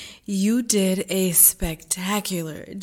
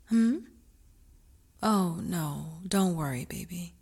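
tender aftercare whisper; 8 semitones lower, 6 dB quieter than usual. Acted. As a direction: soothe her gently in a hush.

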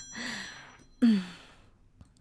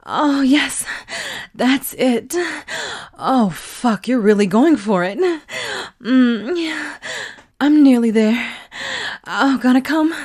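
louder, rising ecstatic cries; building climax; 3 semitones higher, 5 dB louder than usual. Acted. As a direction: let it build toward release. Climax building, loud moans.

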